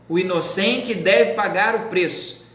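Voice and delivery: slow, deliberate memory line. Shown as a demonstration. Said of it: "Decore isso aí".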